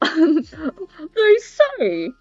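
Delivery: theatrical line, drawn out and falling; Bane. Acted. Trying a Bane line for fun, hammed-up villain voice. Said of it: "wait, let's do a Bane line".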